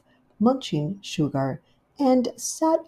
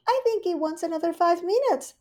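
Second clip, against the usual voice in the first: Rivy's voice; 11 semitones higher than usual. Acted. Rivy welcoming Duchess, high gushing hostess. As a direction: greet her sweetly and grandly.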